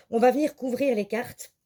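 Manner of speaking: voix coupée par le hoquet; avec le hoquet. Real, not acted. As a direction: parler entre deux hoquets. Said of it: "j'ai le hoquet en même temps". (avec le hoquet)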